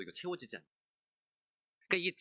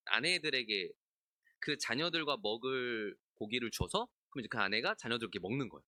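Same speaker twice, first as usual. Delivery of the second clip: ordinary talk, nothing marked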